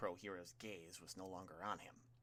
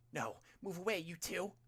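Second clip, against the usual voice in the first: put-on higher, louder shout to the kids; urgent warning shout; 9 semitones higher, 5 dB louder than usual. A narrator's reading. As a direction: call out sharply to pull the two children back. Teacher shouts warning at students.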